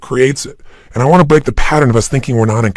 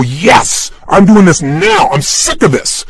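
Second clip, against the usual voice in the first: determined yes; 3 semitones higher, slower than usual. Shown as a demonstration. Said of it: "if you go".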